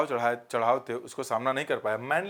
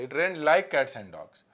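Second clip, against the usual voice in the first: slow dictation; much slower than usual. Shown as a demonstration. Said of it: "ये like का use गलत है".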